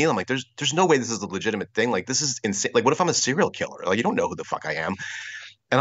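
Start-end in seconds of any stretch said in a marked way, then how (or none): 0.3-4.9 higher-pitched, hurried disbelief; incredulous protest. Retold or imitated. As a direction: reason it out in mild mock alarm. Retold incredulity at the offer.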